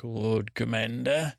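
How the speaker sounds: slow, weighty, lightly voiced Stannis; a hint of stern Stannis, said slowly; Stannis's loaded look. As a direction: drag out the title with a silent stare behind it. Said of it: "he gives Jon a look like".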